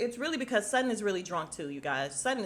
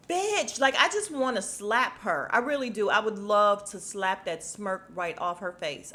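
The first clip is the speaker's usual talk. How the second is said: fed up; 5 dB louder than usual. Real, not acted. Vlogger fumes at smirking Kyle.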